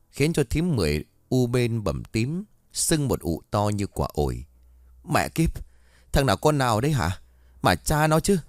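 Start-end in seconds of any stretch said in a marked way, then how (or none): 5.0-8.4 a sharp, shouted curse at an unseen attacker; angry cursing. Acted. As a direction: spit out the curses in pain and rage. Struck woman curses in anger.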